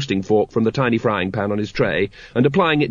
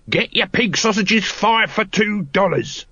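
higher sing-song market call; sausage hawker's cry; 9 semitones higher than usual. A narrator's reading. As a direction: cry your wares over the crowd. Throat hawking.

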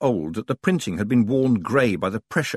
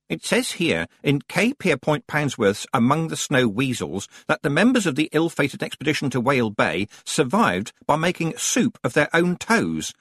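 lightly voiced librarian, pitched higher; deputy librarian reading out; 6 semitones higher than usual. Deputy librarian reporting a survival tip, higher voice. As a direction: read out a book finding to a colleague.

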